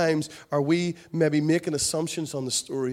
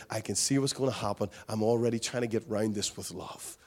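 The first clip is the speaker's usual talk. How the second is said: tender Jesus; 3 semitones lower than usual. Acted. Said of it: "He was all about".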